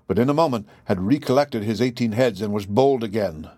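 ordinary delivery

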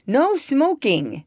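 slow, high, wondering read-out; a hint of a sign being read; relaying odd words. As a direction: puzzle over each phrase.

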